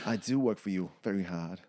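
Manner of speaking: put-on murky mix of Australian and Jersey accents. Marla assuring her boss, soft Australian-Jersey accent. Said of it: "It's Australian Jersey".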